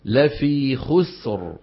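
"لا في خسر" with a clear final ra, slow; correct ending. Shown as a demonstration. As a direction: let the final ra be heard in "خسر". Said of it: "تنطق سين ساكنة وتتبعها براء ساكنة". (نطق صحيح لراء "خسر")

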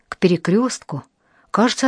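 plain reading voice

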